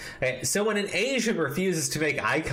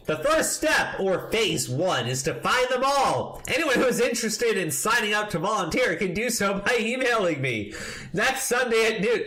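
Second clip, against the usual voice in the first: mock announcement; 4 semitones higher than usual. Reading a rant in mock fervor.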